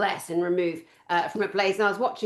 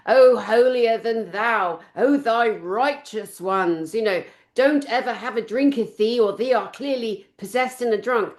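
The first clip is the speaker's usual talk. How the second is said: mock pious voice. Mocking sanctimonious critics.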